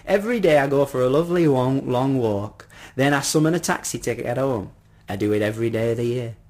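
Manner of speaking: lightly voiced, eager old gentleman; chatty old man. Old man describing his daily walk, lightly voiced and eager. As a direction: explain brightly with a hint of old man.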